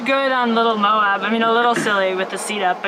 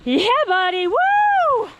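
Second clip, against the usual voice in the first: hoarse marathon cheering; 13 semitones higher, slower than usual. Real, not acted. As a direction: yell encouragement as they pass. Spectator cheering passing racer.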